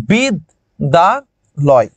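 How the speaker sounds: বিদ, দা, লয়, three separate beats; pausing between syllables. Shown as a demonstration. Teacher writing out syllables for students, বিদ, দা, লয় said one by one. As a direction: set বিদ, দা and লয় apart with pauses. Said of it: "বুঝেছো কয়বার?".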